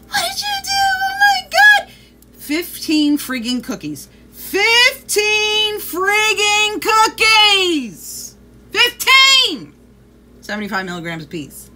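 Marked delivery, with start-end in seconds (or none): 0.1-1.9 high, loud horrified cry; reliving the shock, shriek it out; retold shock. Finding the dog ate the cookies, shrieking in horror. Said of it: "come in and I'm like". 4.3-9.7 slow, loud and higher, each word hammered; outraged shout. Real, not acted. Telling viewers the dog ate fifteen cookies, outraged shout.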